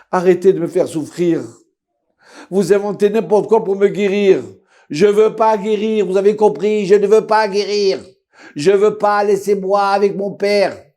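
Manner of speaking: high, loud, desperate outburst; anguished shouting. Acted. Son shouts at the doctors to stop hurting him. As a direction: cry out in pain and refusal.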